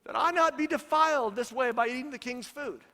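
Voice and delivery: mock timid teenager asking the chief; hint of a young Daniel asking permission; little teenage voice. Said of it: "get my little teenage voice".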